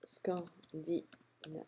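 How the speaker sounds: Scandinavia said the French way, slow and soft, no English accent; English word in a French accent. Shown as a demonstration. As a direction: read out Scandinavia with plain French sounds, sparing the English accent. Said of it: "Je vous épargne mon accent anglais".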